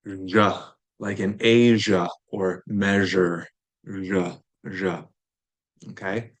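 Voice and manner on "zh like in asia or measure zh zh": "Zh" buzzed like the s in measure; zh sound. Shown as a demonstration. Teacher drilling the zh sound for students. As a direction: voice the zh as in Asia. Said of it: "the Z H, the one that's not common in English".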